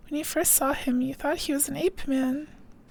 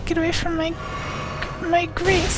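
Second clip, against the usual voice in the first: shouting; 2 semitones higher, 3 dB louder than usual. Pretend. Yelling at game character.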